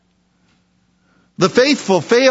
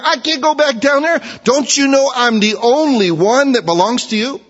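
voicing Elijah; 6 semitones higher than usual. Elijah protests to God.

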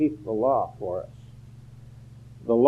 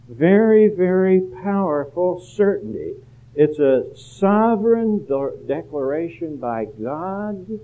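emphatic; 5 semitones higher, 3 dB louder than usual. Real, not acted. Preacher emphatic about certainty.

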